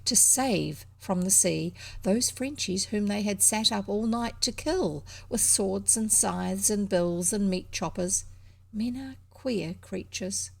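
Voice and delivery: measured, reflective storybook reading; story narration. A narrator's reading. Reader telling of men ready to rescue enemies, measured narration. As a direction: read it aloud evenly, phrase by phrase.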